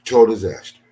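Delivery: real frustration, blurted loudly; angry outburst. Real, not acted. To his audience, a loud frustrated outburst. Angry rant about missing photos.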